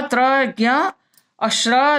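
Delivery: त्र, ज्ञ, श्र drawn out slowly, one by one; slow letter demo. Shown as a demonstration. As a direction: spell out each conjunct slowly for pupils. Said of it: "तो एक श". (धीरे-धीरे संयुक्त अक्षर बोलना)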